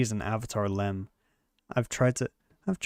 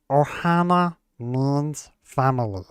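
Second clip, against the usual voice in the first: Stitch voice; slower than usual. Retold or imitated. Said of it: "So stuff like".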